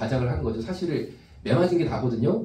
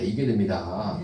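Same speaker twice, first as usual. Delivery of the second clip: 이겨야 repeated lower, rising; lower insistent echo; 5 semitones lower than usual. Shown as a demonstration. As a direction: press 이겨야 again.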